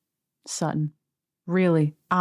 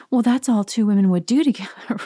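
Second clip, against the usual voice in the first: innocent line; 4 semitones higher, 4 dB louder than usual. Retold or imitated. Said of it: "this innocent line of".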